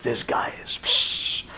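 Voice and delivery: soft whispered amazement; awed whisper. Acted. King amazed by the tongue's cleverness, whispered. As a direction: breathe it out in awe.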